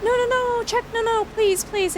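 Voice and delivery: gasp, then high rushed no no no; panicked pleading. Real, not acted. Streamer begging a viewer not to leave, panicked.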